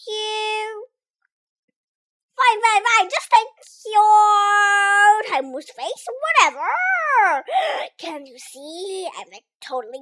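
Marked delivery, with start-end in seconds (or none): 2.3-6.7 annoyed. Acted. Gremlin dismisses the rescuer. 6.7-7.9 loud gasp. Acted. Drowning gremlin gasps.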